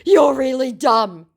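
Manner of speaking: high, loud, drawn-out jeer; hammed-up slow taunt; mock scammer insult.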